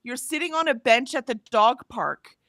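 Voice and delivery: inner rant. Retold or imitated. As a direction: let the silent fury spill out. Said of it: "in my head, I'm like".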